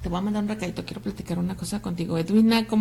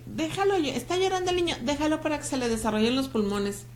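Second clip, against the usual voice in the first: high mock voice of an old-school relative; mocking the old advice; 5 semitones higher than usual. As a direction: parrot the old advice, higher. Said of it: "ni tampoco eso de que". (imitando en tono burlón el consejo de la abuela)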